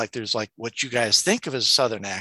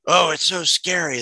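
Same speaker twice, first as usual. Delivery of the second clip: higher-pitched mocking commenter; mock alarm; 4 semitones higher than usual. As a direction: imitate a worried commenter, oohing at it.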